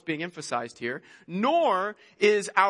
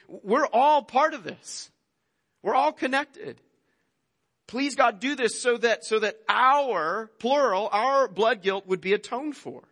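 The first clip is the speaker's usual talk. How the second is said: pleading prayer; 2 semitones higher than usual. Acted. Preacher voicing the people begging God together, heartfelt plea. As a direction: plead it slowly, pitch raised, as the whole people. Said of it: "They say".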